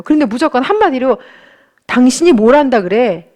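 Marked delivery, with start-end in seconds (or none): 1.9-3.3 curt, belittling question, a bit louder; mock a husband cutting his wife down; harsh dismissive jab. Husband belittling his wife's idea, mild mock scorn. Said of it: "이렇게 너무 세게 말하면".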